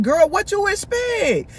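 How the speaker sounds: high, slow mock exasperation; exasperated retold scolding. Storyteller scolding her friend over Chris, exasperated.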